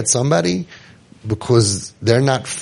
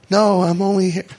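indignant protest; 7 semitones higher than usual. Retold or imitated. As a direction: protest you're only visiting, pitched up. Protesting again in psych ward.

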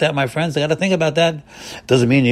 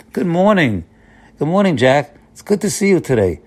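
bright, higher, welcoming greeting; nice friendly tone; 5 semitones higher than usual. Shown as a demonstration. Rabbi showing congregation a friendly good morning, warm and lifted. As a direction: greet Jack like you are glad to see him. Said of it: "with a nice tone".

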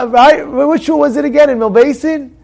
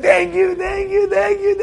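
much higher, gushing thank-yous; grateful learners; 9 semitones higher, slower than usual. Retold or imitated. Learners in the cooled Beit Midrash, gushing high-pitched thanks. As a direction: thank him over and over, delighted.

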